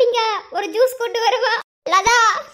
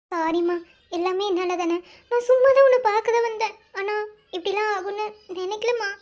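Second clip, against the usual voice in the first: remorseful apology; 3 semitones lower than usual. Acted. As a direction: say sorry with a sinking heart. Girl apologises tearfully.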